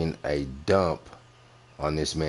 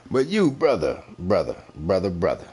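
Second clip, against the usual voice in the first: mock scolding; 3 semitones higher, 3 dB louder than usual. Real, not acted. Scolding the rival host.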